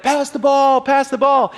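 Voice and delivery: high, urgent sideline holler; coach calling out. Retold or imitated. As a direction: imitate a coach hollering at a player. Coach calling to player in retold game.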